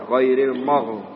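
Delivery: "Ghairil mor" with the mouth skewed for the final sound; mulut dimiringkan. Shown as a demonstration. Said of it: "mulutnya agak dimerengkan". ("mor" dengan mulut agak miring)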